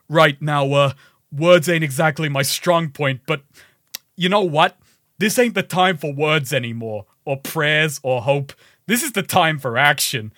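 bad put-on accent for a speech; Jack Paris. Reading a game character's speech to the host, bad accent. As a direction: read a rebel's speech in a hammed bad accent. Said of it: "Let me read Jack Paris's speech in, uh, my bad accent".

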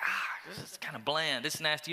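whispered, grossed-out mutter; mock disgust at tasteless food. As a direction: pull a face at the bland food. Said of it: "you're just like".

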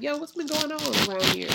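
high-pitched casual street greeting; Jesus. Acted. Risen Jesus joining people on the road, casually hailing. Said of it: "walking with people like".

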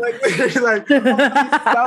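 loud, high laughing speech; excited and laughing, words stretched out; real laughter. Real, not acted. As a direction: talk through a burst of laughter. Laughs at the friend's singing.

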